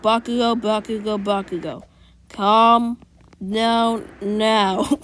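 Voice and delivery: loud, firm teacher settling a student; calming teacher. Retold or imitated. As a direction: call the hothead back down. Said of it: "the teacher be like".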